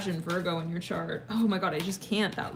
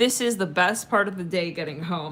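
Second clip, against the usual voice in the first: normal talking voice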